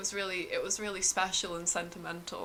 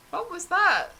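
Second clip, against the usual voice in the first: high, loud, rushed panicked questions; a freaked-out kid blurting at the egg-man; startled Terry; 10 semitones higher, 6 dB louder than usual. Acted. Terry asks anxiously.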